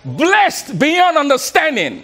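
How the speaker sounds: slow, weighty, a touch of laughter; with conviction. Shown as a demonstration. Speaker leading the crowd in a slow chant. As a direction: declare each word slowly for the room. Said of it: "say this with conviction".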